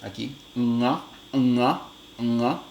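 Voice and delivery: "ña" with the nasal made far back at the velum; velar ña. Shown as a demonstration. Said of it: "esta es la realización velar".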